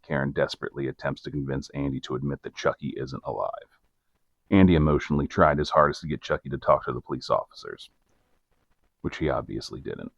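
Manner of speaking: measured storyteller's read; scripted narrator voice, evenly paced; documentary narration. A narrator's reading. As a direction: narrate the case like a true-crime report. Reads scripted case narration.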